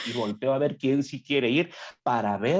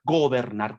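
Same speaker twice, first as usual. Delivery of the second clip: ordinary talk, nothing marked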